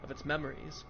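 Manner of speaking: steady narrating read of game text; story narration. Acted. Reads game text aloud.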